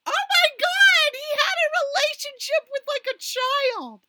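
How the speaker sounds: real high-pitched horrified exclamation; appalled outburst. Real, not acted. Appalled reaction, revealing a scandal.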